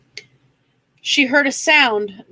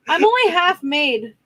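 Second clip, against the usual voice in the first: hidden creature voice; 5 semitones higher than usual. A narrator's reading. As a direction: speak it from the shadows. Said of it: "Frank's voice said".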